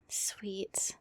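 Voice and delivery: soft whispered approval; tender whisper. Acted. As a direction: breathe it out softly. Partner agrees to cuddle.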